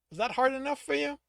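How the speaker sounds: edged, lightly angry taunt. Acted. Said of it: "There was an edge of anger to the man's voice".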